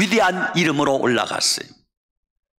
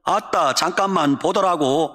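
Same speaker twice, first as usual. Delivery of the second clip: folksy Jeolla accent; Jeolla dialect. Shown as a demonstration. Preacher compares regional phrases, in Jeolla dialect. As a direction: say it like a Jeolla local. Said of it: "전라도 말 뭐라 그래요".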